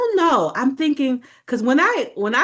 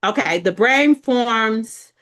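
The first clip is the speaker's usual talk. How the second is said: slow, a bit louder restart; 4 dB louder, slower than usual. Shown as a demonstration. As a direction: say it again slowly. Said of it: "You hear me?".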